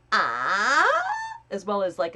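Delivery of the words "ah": breathy ah. Shown as a demonstration. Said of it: "Doing the".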